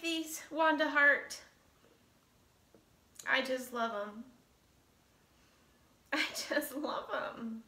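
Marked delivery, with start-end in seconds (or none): 3.3-7.6 fighting back happy tears; moved, trailing softer as tears threaten; choked up. Real, not acted. Woman thanking Wanda for her gift, choked up. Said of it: "I need to stop crying".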